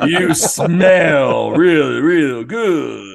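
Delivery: very slow, failed wrestler-star voice, "good" drawn out. Acting out a man pulling a woman close, in a failed The Rock impression. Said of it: "That didn't sound like a rock".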